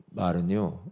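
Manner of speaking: usual speaking voice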